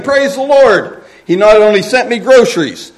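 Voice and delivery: high, loud, elated cry; jubilant praise. Acted. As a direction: exult as if jumping and clapping. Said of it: "jumping up and down and clapping her hands".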